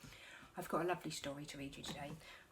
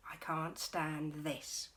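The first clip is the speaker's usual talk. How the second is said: fed up; much slower than usual. Acted. Mister Bear fed up.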